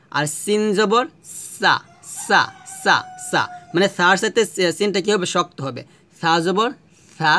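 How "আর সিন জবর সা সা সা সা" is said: সা with a firmer, harder s. Shown as a demonstration. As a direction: stiffen the সা a little. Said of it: "একটু শক্ত করে".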